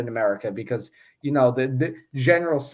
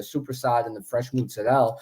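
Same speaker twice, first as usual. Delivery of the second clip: lightly put-on Italian-American deli pronunciation; fake Italian-American accent; 2 semitones lower, 4 dB quieter than usual. Real, not acted. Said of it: "your fake Italian Medegon accent".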